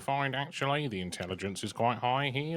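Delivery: silly put-on voice. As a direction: keep up the silly voice. Continues the silly voice.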